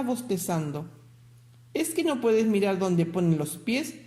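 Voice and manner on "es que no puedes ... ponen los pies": a bit annoyed. Acted. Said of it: "un poco enojada".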